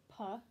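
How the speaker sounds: "puh" said as a crisp single syllable; puh sound. Shown as a demonstration. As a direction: say "puh" clearly once. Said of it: "you're going to say".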